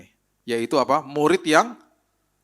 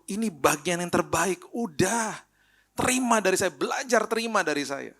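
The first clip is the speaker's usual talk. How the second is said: lightly voiced, higher, gentle invitation; voice of Jesus; 8 semitones higher than usual. Preacher voices Jesus inviting the disciple, a touch higher. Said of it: "Makanya dia kasih, kasih tahu".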